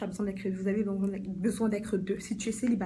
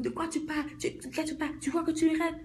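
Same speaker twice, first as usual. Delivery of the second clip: higher-pitched mock retort; put-on higher voice, hammed-up objection; indignant listener; 6 semitones higher than usual. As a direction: imitate someone taken aback and challenging. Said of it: "Ils sont comme".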